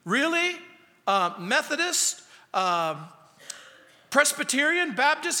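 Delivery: high, quick, excited questions; mock-excited high quizzing; eager curious. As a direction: pounce on the detail. Rescuer quizzing denominations.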